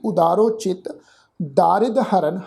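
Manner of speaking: ਉਦਾਰੋ ਚਿਤ then a clear pause before ਦਾਰਿਦ ਹਰਨ; pause after chit. Shown as a demonstration. Teacher marking the pauses in the verse for the sangat. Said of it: "ਚਿਤ ਸ਼ਬਦ ਤੋਂ ਬਾਅਦ ਵਿਸ਼ਰਾਮ ਚਿੰਨ੍ਹ ਲਗਾਵਾਂਗੇ".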